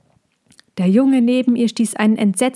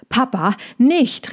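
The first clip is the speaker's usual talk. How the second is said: higher, slow pleading cry; pleading call; 5 semitones higher than usual. Acted. Balbi calling to his father to hold back. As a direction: beg him to stop. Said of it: "rief Balbi".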